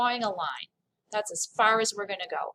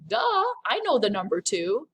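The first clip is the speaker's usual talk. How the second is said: playful as-if-obvious tone; mock "duh". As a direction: toss it off like it's obvious. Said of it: "It's kinda like".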